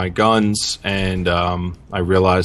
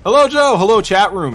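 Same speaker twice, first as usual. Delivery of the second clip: cute anime streamer; 9 semitones higher, 4 dB louder than usual. Acted. Cohost sing-song greeting continues.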